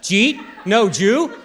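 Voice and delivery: "Jeet?" and "No Jew?", words run together loud and high; Maryland drawl conversation. Acted. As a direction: squash "did you eat" into "Jeet", "did you" into "Jew". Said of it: "how many times I had this conversation".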